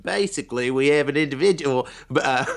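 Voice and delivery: put-on half-hearted Australian accent; badly faked Australian accent. Retelling an Australian police breakdown, badly faked Australian accent. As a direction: attempt an Australian police officer, not very well. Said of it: "I can't do an Australian accent".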